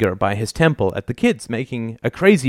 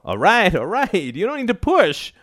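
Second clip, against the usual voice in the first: high-pitched indignant complaint; protesting son; 11 semitones higher than usual. A narrator's reading. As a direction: object while being shoved out. Son protests being manhandled.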